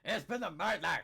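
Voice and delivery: low, hammed-up Scottish announcement; theatrical fake Scottish; mock Scottish accent. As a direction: declare the crime in a thick put-on Scottish accent. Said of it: "the Scottish accent".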